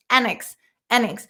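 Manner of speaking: annex with the stress on the first syllable, AN-iks; stress drill. Shown as a demonstration. Teacher repeating the correct stress on annex.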